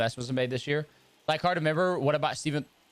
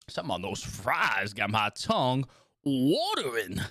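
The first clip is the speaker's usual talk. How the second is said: Southern twang. Shown as a demonstration. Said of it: "brings out a little bit of the, the twang".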